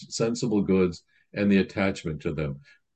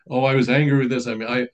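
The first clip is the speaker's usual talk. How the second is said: higher, pleading confession voice; lightly voiced anxious penitent, higher and fast; imitating a penitent; 5 semitones higher, 3 dB louder, faster than usual. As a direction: plead with the priest like a flustered penitent.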